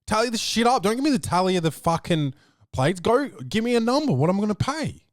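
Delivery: exasperated customer; half-serious scolding; annoyed rant. Retold or imitated. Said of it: "I'm like".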